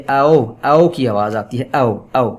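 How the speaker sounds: او gliding from 'a' to 'o'; diphthong demo. Shown as a demonstration. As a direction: sound out او as a double vowel. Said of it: "ا سے شروع ہوتی ہے اور او پہ ختم". (او کی دوہری آواز، 'ا' سے 'او' تک)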